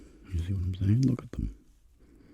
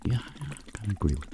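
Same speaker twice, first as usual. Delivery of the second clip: Tony voice; 7 semitones higher, much faster than usual. Pretend. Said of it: "And Tony's like".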